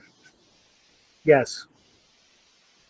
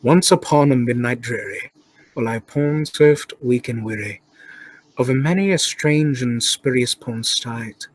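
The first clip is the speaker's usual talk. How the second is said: lower, mock-dramatic British accent poem recital; British accent reading; 4 semitones lower than usual. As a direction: read it like a grand British poet. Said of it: "I need to read this in a British accent".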